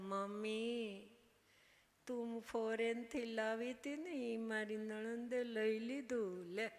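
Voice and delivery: drawn-out, slow whining to mommy; a pouting young wife telling on her sister-in-law; whiny complaint. Retold or imitated. Young wife phoning her mother about the taken hair clip, slow whine.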